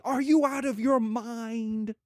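slow, drawn-out disbelief; incredulous brother. Acted. Brother reacting to uncle's philosophy, mildly acted incredulity. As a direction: stretch it out in mock outrage. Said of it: "My brother is going to say".

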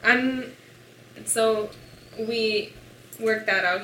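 normal talking voice

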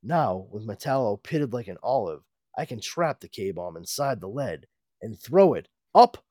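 low heroic hero voice; heroic Superman voice. Acted. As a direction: speak like a cartoon Superman. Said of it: "Superman would say that".

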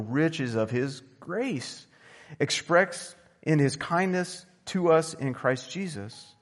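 measured, steady Bible reading; scripture reading. Acted. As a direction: read the passage to the congregation, unhurried. Reads Ephesians two aloud.

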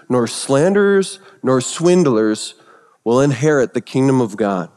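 measured, solemn reading of the verse list; scripture reading. Acted. Preacher reads Paul's vice list to the church, solemnly. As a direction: read each item out deliberately.

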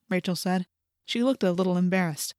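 plain reading voice

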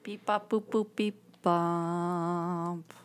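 beeping robot; mock robot beeps. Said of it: "You almost are going into Willy Wonka".

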